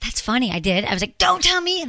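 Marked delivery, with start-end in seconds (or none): 1.2-1.8 higher-pitched, indignant retort; retold flare-up, played for fun; mock indignation. Retelling a reply to partner, mock-indignant.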